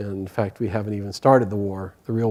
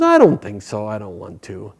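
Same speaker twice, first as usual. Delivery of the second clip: unbothered monkey; 2 semitones lower than usual. Acted. Monkey refusing Bhima, mildly lazy and unbothered. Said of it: "And the monkey says".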